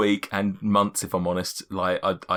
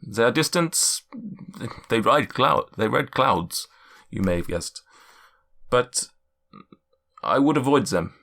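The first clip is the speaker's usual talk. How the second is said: cloud giant's voice. Acted. Cloud giant warning the party about giants, stately. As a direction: lay out the giant races gravely.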